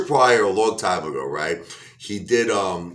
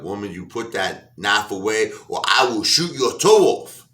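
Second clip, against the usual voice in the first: husband's threat. Retold or imitated. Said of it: "he's like".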